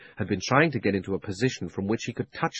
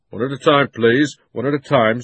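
policeman calming; 3 semitones higher, 6 dB louder than usual. A narrator's reading. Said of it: "said the policeman".

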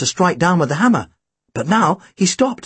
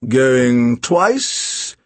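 auctioneer's call; 4 semitones lower than usual. A narrator's reading. Auctioneer calling the final bid.

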